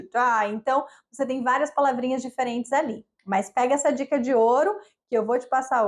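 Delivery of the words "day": "die" as Australian English says "day"; Australian accent. Shown as a demonstration. Teacher showing how day changes in Australia, Australian accent. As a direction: demonstrate the Australian vowel shift in "die". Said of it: "day vira to die".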